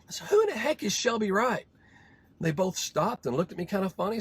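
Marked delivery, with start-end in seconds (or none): 0.3-1.7 puzzled question. Retold or imitated. Confused American asks.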